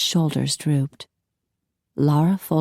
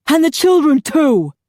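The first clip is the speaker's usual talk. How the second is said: loud, high furious yell; husband threatening the children; raging threat; 10 semitones higher, 7 dB louder than usual. A narrator's reading. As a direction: spit out the threat.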